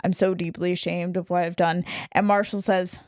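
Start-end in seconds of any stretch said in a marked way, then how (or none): 0.0-1.8 flat, emotionless apology; deadpan robotic monotone. Retold or imitated. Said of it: "just in the most monotone voice".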